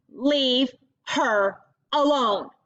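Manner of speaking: very slow, deliberate words; firm warning. Acted. Ronan warning the girls to stop, slow and firm. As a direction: lay down the law calmly. Ronan defends crying Delcy.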